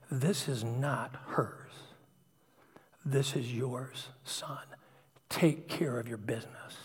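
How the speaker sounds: slow, softened, lightly voiced word from God; measured, hushed rebuke with weighty pauses; God speaking. God telling a praying father to own it, quiet and firm. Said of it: "heard God almost literally say to me".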